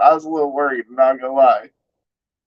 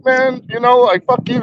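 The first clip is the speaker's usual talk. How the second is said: retold defiant jab; 9 semitones higher than usual. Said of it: "I did one of them".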